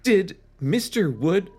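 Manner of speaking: high, slow frightened squeak; breathless scared kid voice; hammed-up terror; frightened girl. Chris panicking, read aloud.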